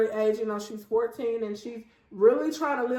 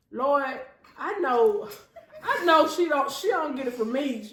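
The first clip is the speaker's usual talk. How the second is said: laughing mock prayer; 3 semitones higher than usual. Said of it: "I used to be like".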